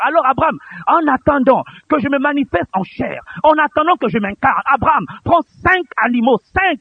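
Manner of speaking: high, urgent pulpit voice; impassioned preaching. Retold or imitated. God instructing Abraham before coming in flesh, high and insistent. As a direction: press the command upward with insistence.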